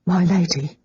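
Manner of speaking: gentle, sorry tone; soft and regretful. Acted. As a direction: say it softly, with regret. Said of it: "Missus Burney said softly, regretfully".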